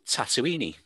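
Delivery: "Tatooine" with an extra final ee, tat-oo-EE-nee; Scouse pronunciation. Retold or imitated. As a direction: say "Tatooine" as four syllables ending in -nee. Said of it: "the way I pronounce it in Scouse".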